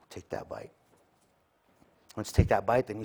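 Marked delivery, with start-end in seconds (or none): 0.1-0.7 low tempting. Retold or imitated. Tempter repeats lower.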